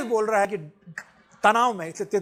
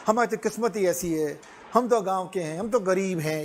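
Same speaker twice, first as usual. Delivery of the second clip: self-pitying whine. Retold or imitated. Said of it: "अपने आप को पिटिएबल".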